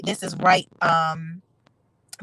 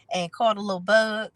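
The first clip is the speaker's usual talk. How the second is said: stuffy, nasal cold voice; blocked nose from a cold. Real, not acted. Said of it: "You can probably hear it in my voice".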